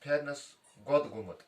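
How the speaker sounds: measured recitation of a Kashmiri rhyme, each line lifted then dropped; slow verse recital for children; reciting a verse. Acted. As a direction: chant it line by line like a riddle.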